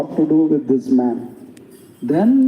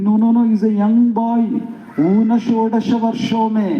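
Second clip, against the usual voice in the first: pleading; 5 semitones higher than usual. Retold or imitated. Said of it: "Dasharatha was pleading".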